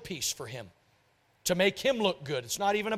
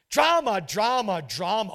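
exasperated; slower than usual. Real, not acted. Exasperated sigh over drama.

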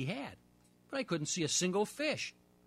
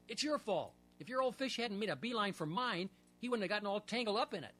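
cried; 4 semitones higher than usual. Acted. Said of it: "I cried to my best friend".

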